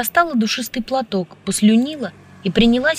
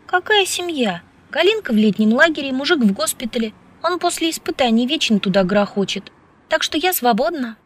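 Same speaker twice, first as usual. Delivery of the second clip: higher-pitched, lively female character; breezy woman's voice; 5 semitones higher than usual. Acted. Woman explaining that she is free, breezy. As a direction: brush the worry aside, pitched up. Woman answers his suspicion.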